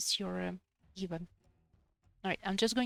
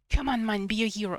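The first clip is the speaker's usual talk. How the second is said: self-cheer; 7 dB louder than usual. Real, not acted. Cheering himself on in game.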